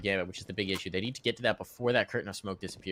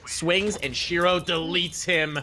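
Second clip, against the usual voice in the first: excited, higher map-winning call; esports caster; 5 semitones higher, 3 dB louder, slower than usual. Real, not acted. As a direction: call the final kill with energy.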